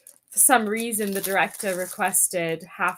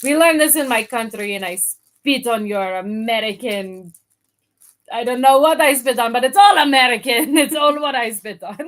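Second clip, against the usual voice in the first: loud, mock-indignant Russian; Russian accent; 5 dB louder than usual. Pretend Russian scorning America, loud mock indignation in a Russian accent. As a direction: declaim like an outraged Russian patriot.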